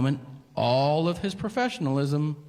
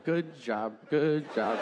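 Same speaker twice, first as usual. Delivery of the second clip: inner cheer; 3 dB quieter, slower than usual. Retold or imitated. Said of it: "a marching band inside of me right now going".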